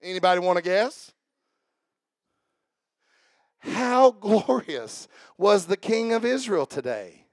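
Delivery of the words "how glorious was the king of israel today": slow, drawn-out mock admiration; sarcastic. Wife greeting the king at the door, sarcastic. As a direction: lay on the sarcasm, slowly. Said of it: "This is called sarcasm".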